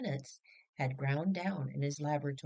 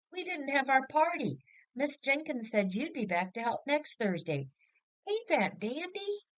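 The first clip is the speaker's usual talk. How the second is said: hammed-up excited kid yelling the news; excited child shout; 9 semitones higher than usual. Boy shouting to his mother at the station, high and excited. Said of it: "jumping backward in front of them and shouting".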